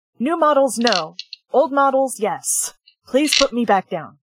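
voice like a robot dog. In a tabletop game, a player voices a robot dog being lifted; Bingo robot dog voice. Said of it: "Bingo in robot dog voice".

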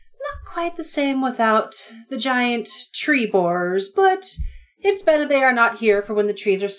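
sad, sorrowful words on a small sigh. Voicing a character missing the tree borers, with a sad sigh. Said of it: "one sad, tiny little sigh".

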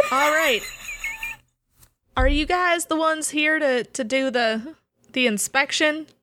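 put-on Southern accent. Prompted by a fellow player to do a Southern accent in a role-play scene. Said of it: "You can do your Southern accent".

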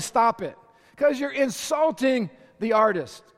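urgent, emphatic preacher-style outcry. Speaker addressing listeners with lousy self-esteem, yelling. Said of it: "Here's why I'm yelling".

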